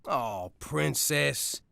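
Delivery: tender fatherly. Acted. Father gently counsels daughter.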